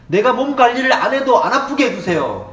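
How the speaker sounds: hammed-up wishful praying; mock lazy prayer. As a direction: beg God for the easy way.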